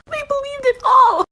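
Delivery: high, loud, slow squeal of glee; laughing while talking. Real, not acted. Prankster revealing the sisters believed it all, cracking up. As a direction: force it out between bursts of laughter.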